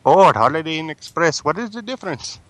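prank caller in a put-on Indian English accent; polite caller with an Indian accent, a touch pushy. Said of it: "Should I do an accent?".

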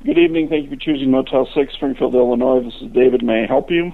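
bored, flat desk-clerk greeting; apathetic. Real, not acted. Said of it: "you sound really bored".

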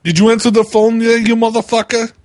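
loud, high, rapid-fire challenge; aggressive prank caller. Acted. Confronting person answering prank call.

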